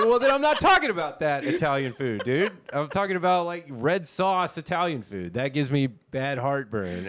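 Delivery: high, loud comic retort, close to laughing; exasperated protest. Retold or imitated. Patient retelling his argument with the doctor, exasperated protest.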